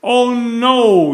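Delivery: loud high cry; yelled. A narrator's reading. Mother realizing Ben took the baby. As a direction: gasp it out in alarm. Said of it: "yelled the mother".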